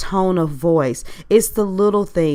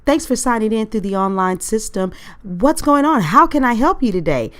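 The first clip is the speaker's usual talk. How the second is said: higher, louder, chipper agent greeting; cheerful customer service agent; 4 semitones higher, 4 dB louder than usual. Retold or imitated. Helpline agent greeting a frustrated caller, chipper and higher. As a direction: play the overly sunny helpline voice, a bit higher and louder. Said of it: "you hear this voice that says".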